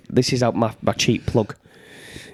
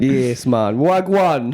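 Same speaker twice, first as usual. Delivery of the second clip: mock Jamaican; much slower than usual. Shown as a demonstration. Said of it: "Was that Jamaican again?".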